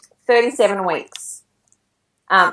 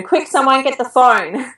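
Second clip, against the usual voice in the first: raised-pitch urgent call, not truly shouted; mild retold yell; 5 semitones higher than usual. Mother calling her children for help, mild retold yell. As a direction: imitate calling out to the children without real volume. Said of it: "yelling at my children".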